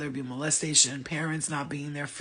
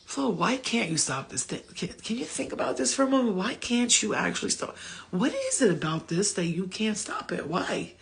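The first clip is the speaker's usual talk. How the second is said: gentle self-questioning; 3 semitones higher than usual. Retold or imitated. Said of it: "I'm more like".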